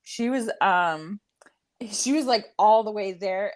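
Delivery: breathy whispered aside. Real, not acted. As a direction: hush it into a whisper.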